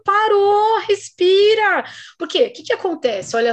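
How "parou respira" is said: slow, drawn-out respira; slow them down, breathe; long calming parou, respira; calming command. Retold or imitated. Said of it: "Eu falo".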